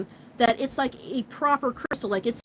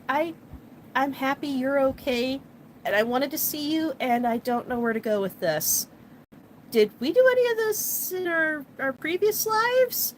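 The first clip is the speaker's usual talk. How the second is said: timid Sailor Moon. Retold or imitated. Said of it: "crouched in on herself".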